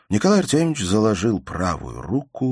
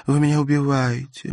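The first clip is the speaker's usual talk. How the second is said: a hint of a plaintive higher mother's voice; lightly voiced fretful mother; 8 semitones higher than usual. A narrator's reading. Mother pleads with her husband, lightly voiced and plaintive.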